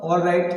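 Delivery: "all right" said as "awl right"; rounded O to open "all right". Shown as a demonstration. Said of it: "इसको हम all पढ़ेंगे".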